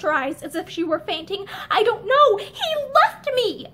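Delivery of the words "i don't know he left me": broken whisper. A narrator's reading. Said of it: "only a broken whisper".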